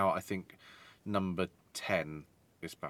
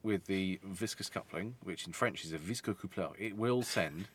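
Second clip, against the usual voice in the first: put-on French accent. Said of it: "That's just you with a French accent".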